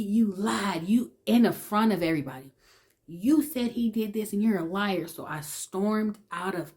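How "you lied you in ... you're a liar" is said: accusing. Retold or imitated. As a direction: throw the blame at her in front of everyone. Cousin accuses her before class.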